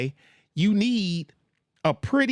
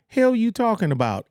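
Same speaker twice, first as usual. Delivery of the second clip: indignant retort; 7 semitones higher than usual. Acted.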